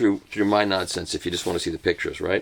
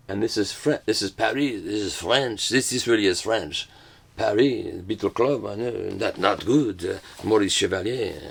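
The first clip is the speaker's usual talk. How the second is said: badly faked French accent; mock French accent. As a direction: lightly put on a classic French crooner-style accent. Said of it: "but French accent".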